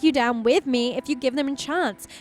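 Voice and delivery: put-on earnest, worried young woman; Lena voice. Voices Lena in game dialogue.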